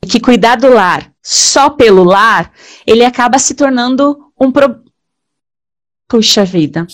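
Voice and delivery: talking through a headset mic; headset mic sound. Real, not acted. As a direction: speak into a close headset microphone. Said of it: "Agora eu tô de capacete aqui".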